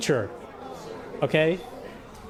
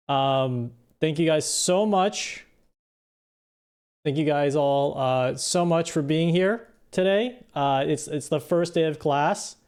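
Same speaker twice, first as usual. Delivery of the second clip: droning teacher impression. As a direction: drag through the intro like a bored teacher. Teacher drones through lesson intro.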